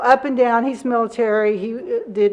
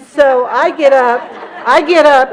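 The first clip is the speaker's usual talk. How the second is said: getting fired up; 3 semitones higher, 7 dB louder than usual. Real, not acted. Rising to confront the mom.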